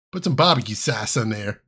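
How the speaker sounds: Chicago "sauce" said as "sass"; playful Chicago vowels; Chicago accent. Pretend. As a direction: toss it off like a Chicagoan. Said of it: "Sauce is sass".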